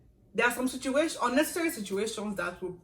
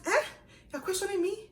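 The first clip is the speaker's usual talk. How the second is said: affronted; 13 semitones higher than usual. Retold or imitated. Senior affronted by the junior.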